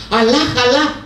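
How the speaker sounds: shriek. Acted. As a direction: cry out to Allah in fright. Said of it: "ξεφώνησε". (τρομαγμένο ξεφωνητό)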